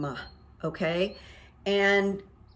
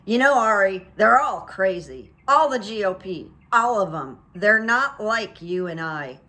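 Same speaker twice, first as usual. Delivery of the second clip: put-on James Carville's thick accent; 5 dB louder than usual. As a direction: loudly mimic an old strategist's thick accent. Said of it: "Carville has this thick accent. He goes".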